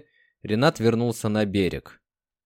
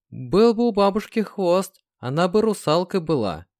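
ironic snort; 7 semitones higher than usual. A narrator's reading. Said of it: "иронически хмыкнула Марьяна".

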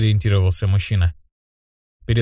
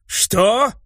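high, sharp indignant question; indignant what; 10 semitones higher than usual. Acted. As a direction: bristle at the insult. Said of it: "возмутился один из мужчин".

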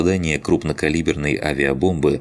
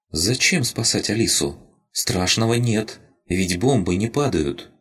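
higher, small and plaintive creature voice; childlike rabbit spirit; 6 semitones higher than usual. Acted. Crystal rabbit tells Lina it was glad, higher childlike voice. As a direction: speak like a tiny lost spirit.

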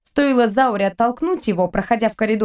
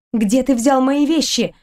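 indignant; 3 semitones higher than usual. Acted. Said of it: "возмутилась Кристина".

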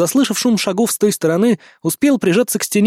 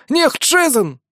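desperate wailing cry; 8 semitones higher, much slower than usual. Acted. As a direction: keep wailing, still begging. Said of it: "надрывался охранник".

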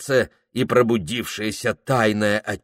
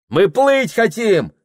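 high, loud, slower insisting cry; shout; 11 semitones higher, 6 dB louder, slower than usual. Acted. Prokhor shouting back at the Tungus. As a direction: insist loudly. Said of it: "крикнул Прохор".

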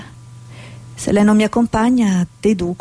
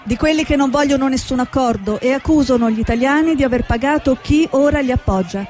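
news report voiceover; 3 semitones higher than usual. Acted. Reporter filing a news piece from Mogadishu, measured. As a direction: read it like a TV correspondent.

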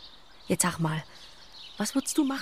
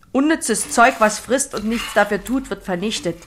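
harsh grandfather; 3 semitones higher, 5 dB louder than usual. Retold or imitated. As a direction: quote a contemptuous grandfather, hitting the first words hard. Quotes grandfather smashing sparrows.

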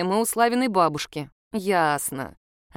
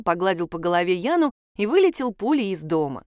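ordinary delivery

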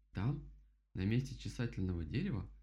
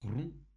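отрывистый звукоподражательный «хрум»; изобрази резкий хруст; зловещий хруст; 4 semitones higher than usual. A narrator's reading. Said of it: "громкий и зловещий хрум". (зловещий хрум)

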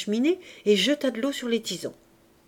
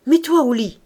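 loud, higher-pitched curt command; peremptory; 4 semitones higher, 9 dB louder than usual. A narrator's reading. Man sending his wife to bed, peremptory. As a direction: order it with no room for argument. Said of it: "L'intonation n'admettait pas de délibération".

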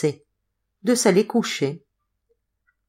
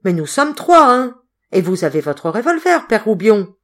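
urging courage; 4 semitones higher, 5 dB louder than usual. Acted.

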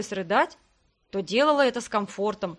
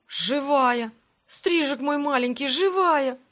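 overjoyed; 3 semitones higher, 3 dB louder, slower than usual. Acted. Навигатор узнаёт живую подругу.

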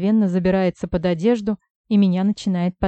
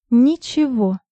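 a sharp, higher hiss of «Ничего»; hissed through teeth; 5 semitones higher, 4 dB louder, slower than usual. A narrator's reading. Heroine snaps at Vlad through clenched teeth. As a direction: bite the word off angrily. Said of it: "процедила я".

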